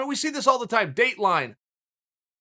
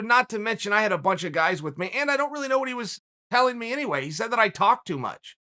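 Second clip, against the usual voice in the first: calm, lower-pitched retelling of a fighter; 4 semitones lower than usual. Retold or imitated. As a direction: play the fighter unbothered, voice kept low. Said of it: "comes out very calmly and says".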